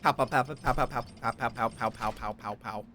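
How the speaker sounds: says "pal" like "pow", the l turned into a round ow; "pow, pow, pow" with the l gone; pow instead of pal. Real, not acted. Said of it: "sounds like I'm saying pow".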